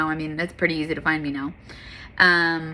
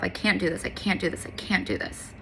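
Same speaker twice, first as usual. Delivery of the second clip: repeated line, softer each time until whispered; fading to a whisper; 7 dB quieter than usual. Retold or imitated. Recalling her car meltdown, she fades softer into a whisper. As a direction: let it shrink from soft to a bare whisper.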